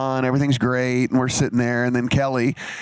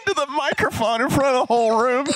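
much higher, words squeezed out through laughter; laughing through words; 13 semitones higher than usual. Real, not acted. Teller laughing hard while retelling the snakes moment. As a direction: keep retelling while you can't stop laughing.

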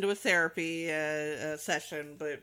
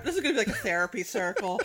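laughing; faster than usual. Real, not acted. Repeated through laughter.

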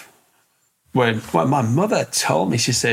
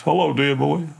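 Mister Pond's voice; 4 semitones higher than usual. Retold or imitated. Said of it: "He said a voice like that".

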